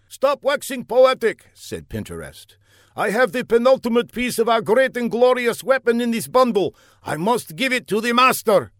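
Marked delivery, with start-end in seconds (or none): 0.1-1.5 high, loud sneering henchman; villain voice. Acted. Pinterest scolds the guard. 3.0-8.7 high, loud grand henchman; villain voice. Acted. Pinterest announces the weapon piece.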